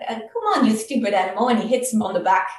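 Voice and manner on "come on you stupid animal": exasperated yell. Acted. Worried Brahmin yelling at the bull that won't move, exasperated. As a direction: snap at the animal in frustration. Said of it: "starts shouting and screaming at the bull".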